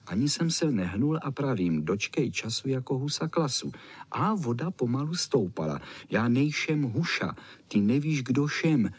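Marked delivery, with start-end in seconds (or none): 6.1-8.9 lisping "nejšem huša" and "šem" with sh for s. A narrator's reading. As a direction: lisp every s like a tiny flea. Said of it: "šišlalo to".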